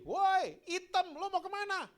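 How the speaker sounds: loud, high-pitched taunting yell; imitating a kid hollering at someone; bully's shout. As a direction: yell it across the schoolyard. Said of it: "Temennya teriak kenceng banget".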